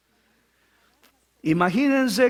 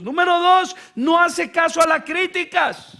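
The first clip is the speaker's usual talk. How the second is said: higher and louder announcement; loud point; 6 semitones higher than usual. Shown as a demonstration. Preacher announcing point two boldly. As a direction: proclaim the point. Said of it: "first statement of point".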